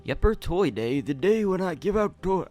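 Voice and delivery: put-on creaky old man voice chewing gum; old tortoise voice. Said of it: "really hard to do that voice when I have gum".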